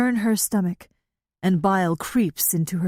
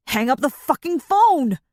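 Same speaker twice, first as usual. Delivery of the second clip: high, loud angry order; through clenched teeth; 7 semitones higher, 4 dB louder than usual. A narrator's reading. Thief ordering the boy to drop the phone, furious. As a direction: force it out through gritted teeth. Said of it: "the thief says between clenched teeth".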